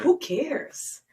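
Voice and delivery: high-pitched, rising brush-off; exasperated dismissal. Real, not acted. Woman dismissing his worry about past partners, exasperated. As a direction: throw it out high, as a challenge.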